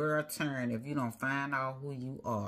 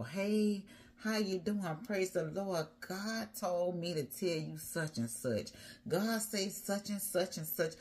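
higher-pitched demonstration of plain speaking; plain-spoken greeting; 4 semitones higher than usual. Acted. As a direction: act out a clear, friendly message to someone. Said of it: "you gonna be speaking it plainly".

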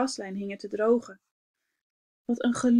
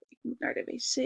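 said softly; 2 semitones higher, 7 dB quieter, faster than usual. A narrator's reading. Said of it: "zei meneer Van Pels zacht".

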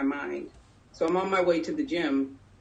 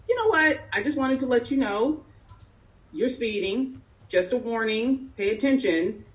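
higher-pitched, casual officer quote; imitated police officer; 5 semitones higher than usual. Officer warns a speeding driver, imitated casual warning. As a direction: voice the officer letting someone off, pitched up.

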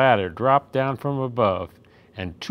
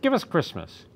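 shouting trolls; 6 semitones higher than usual. A narrator's reading. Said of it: "they shouted".

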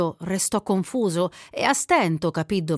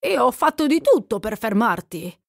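raised, loud altered voice; 4 semitones higher, 5 dB louder than usual. A narrator's reading. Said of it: "mugolando come se anche lui fosse mezzo addormentato".

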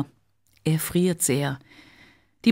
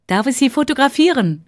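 higher call across the market; 8 semitones higher, 5 dB louder than usual. Acted. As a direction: call out the question to the old woman. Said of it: "ruft sie der Frau zu".

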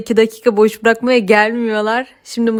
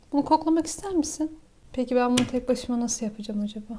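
soothing; 7 dB quieter than usual. Real, not acted. Soothing the cat during nail trim.

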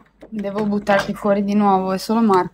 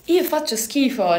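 higher, punchier self-mocking repeat; raised, insistent repeat; emphatic repeat; 6 semitones higher than usual. Real, not acted. Repeats confession with more emphasis.

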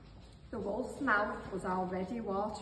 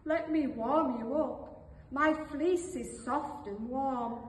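a touch higher, kind offer; generous little sheep; 4 semitones higher, 4 dB louder than usual. Acted. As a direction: offer comfort gently, easing into it. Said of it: "Full of generosity, the little sheep suggested".

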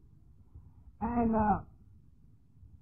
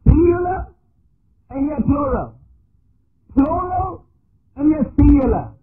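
higher and louder, hammering both words; preaching at full force; emphatic paradox; 5 semitones higher, 8 dB louder than usual. Real, not acted. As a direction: drive the contradiction home.

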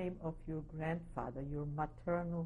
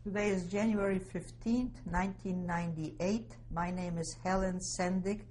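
louder restart; 5 dB louder than usual. Real, not acted. Interviewer restarting the tape intro, projecting louder. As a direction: repeat the intro more loudly, projecting.

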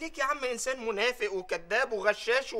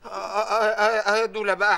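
loud comic protest; 7 dB louder than usual. Acted.

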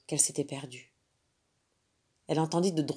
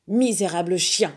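louder furious panther cry; 2 semitones higher, 6 dB louder than usual. Acted. Angry panther crying out at the dog. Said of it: "s'écria la panthère furieuse".

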